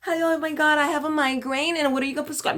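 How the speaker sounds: mock sweet, timid patient voice; meek patient. Mocking the polite patient she refuses to be, mildly sweet. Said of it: "Forget the".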